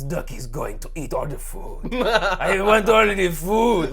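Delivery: put-on greedy little girl laughing for food; Ducky voice. Guest voices Ducky wanting all the food, high and slow.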